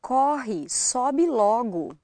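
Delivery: "Corre, sobe logo" with stressed o opened to aw. Shown as a demonstration. Brazilian repeating it as a model, open o in "Corre, sobe logo". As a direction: draw out "sobe logo" slowly with open vowels. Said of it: "Say that again".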